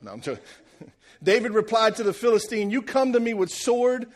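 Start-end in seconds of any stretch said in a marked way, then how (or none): 2.7-4.1 trash talk. Acted. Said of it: "David comes out and talks some real trash".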